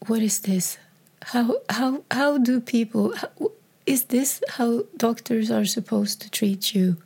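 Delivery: softly, breaking into tears; hurt, half-whispered and tearful; tearful disbelief. Retold or imitated. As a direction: whisper it, then let it crack with crying. Recalling despair after the doctor left.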